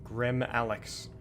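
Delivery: slow hissing snake voice; drawn-out s like a snake. Pretend. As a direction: stretch the s like a snake. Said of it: "That was just a little snake impression".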